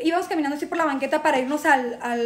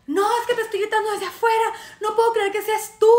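high, pleading insistence; mock insistent protest; 5 semitones higher than usual. Man insisting to woman in club, high mock protest. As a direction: insist in a raised pitch. Retold quarrel, man's line.

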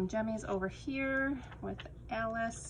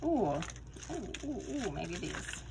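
excited. Real, not acted. Delighted at finding matching dots.

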